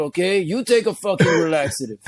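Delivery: put-on comic Mexican vato accent; mock-offended Mexican-American homeboy accent; indignant vato. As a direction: deliver the comeback as a vato. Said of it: "now I'm gonna go full-blown vato".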